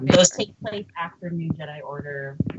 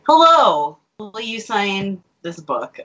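mock polite fan; slower than usual. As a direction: play the shy fan asking for an autograph. Retelling own fan greeting.

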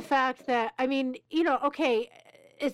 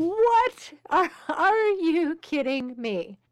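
high, loud burst of amazement, then drawn out; astonished disbelief; 5 semitones higher, 4 dB louder, much slower than usual. Real, not acted. Host hears of the son's first words, real astonished disbelief. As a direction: react in real stunned disbelief. Host reacts to miracle story.

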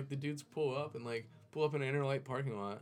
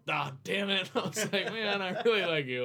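mock dismay; 10 semitones higher, 8 dB louder than usual. Learning the thief's brother is nice.

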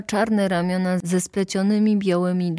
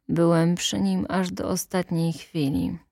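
ordinary delivery, nothing marked

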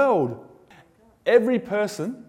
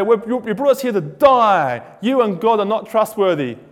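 louder, whining grumble of a crowd; complaining Israelites; 7 dB louder than usual. Retold or imitated. Israelites grumbling at Moses, louder whiny complaint. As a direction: moan like ungrateful refugees.

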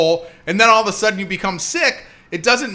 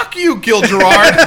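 mock angry outburst; 5 semitones higher, 7 dB louder than usual. Retold resentful reaction to favouritism.

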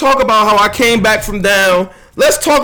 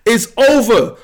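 ordinary talk, nothing marked

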